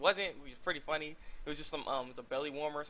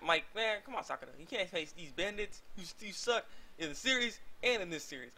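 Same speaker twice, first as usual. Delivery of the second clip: mock taunt; 3 semitones higher than usual. Teasing Sakura in a put-on voice.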